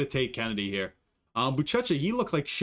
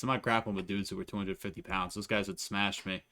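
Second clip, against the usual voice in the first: ordinary talk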